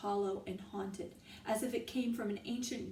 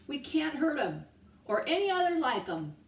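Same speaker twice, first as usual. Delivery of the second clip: loud, higher insistence; shout; 6 semitones higher, 6 dB louder than usual. A narrator's reading. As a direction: shout the warning. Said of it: "shouted another".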